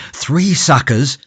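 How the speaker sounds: slow, high, drawn-out startled question; startled cry. A narrator's reading. Cornelius startled by Jacob's plan, crying out slowly. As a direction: echo the words back in disbelief. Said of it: "cried Cornelius".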